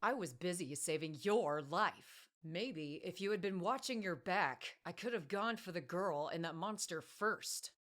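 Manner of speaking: lightly voiced birdman firing back; a touch of a cool retort. A narrator's reading. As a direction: birdman answering back coolly. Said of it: "he retorted".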